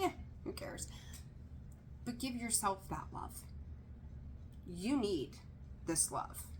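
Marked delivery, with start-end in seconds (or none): 0.0-0.9 breathy throwaway whisper, pitched high; dismissive whisper. Retold or imitated. Reader mocking her usual Valentine's attitude, whispered. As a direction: shrug it off under your breath. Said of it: "I'm usually just like".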